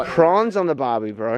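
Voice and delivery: playful Australian accent, lifted in pitch. Shown as a demonstration. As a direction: show off your imitation Australian accent. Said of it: "You like that accent?".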